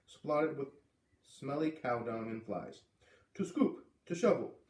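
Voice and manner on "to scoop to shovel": put-on high, clipped old-lady command; old Missus Falala. Old neighbor assigning dung duty, high and curt. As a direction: give the chore as a stern order.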